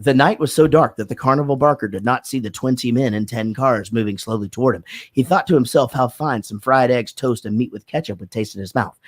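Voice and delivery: careful, even diction drill; diction exercise read. Shown as a demonstration. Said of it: "you would have to read this thing".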